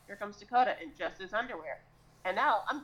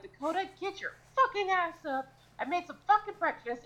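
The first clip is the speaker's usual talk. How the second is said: high-pitched mock yell through a door; acted yelling; 9 semitones higher than usual. Banging on a sleeping housemate's bedroom door, acted yelling. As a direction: holler at a housemate to get up. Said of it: "I am banging on that fucking door".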